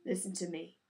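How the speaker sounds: calm her tenderly; father soothing his daughter; gently. A narrator's reading. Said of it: "her father said gently".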